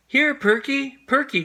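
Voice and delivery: high, loud call for the lost dog. A narrator's reading. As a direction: call across the yard for Perky. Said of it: "called Arthur".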